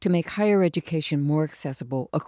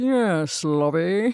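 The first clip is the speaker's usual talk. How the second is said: put-on mid-Atlantic accent; 3 semitones higher, 4 dB louder than usual. Discussing the mid-Atlantic accent, one speaker imitates Thurston Howell the Third. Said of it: "of Thurston Howell the Third from Gilligan's Island".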